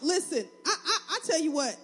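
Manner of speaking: talking through real laughter; can't hold back the giggle; laughing. Real, not acted. Laughing at her own joke.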